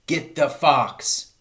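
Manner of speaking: slow, loud, high shout. A narrator's reading. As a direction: drag out a loud order. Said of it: "shouted Bunce".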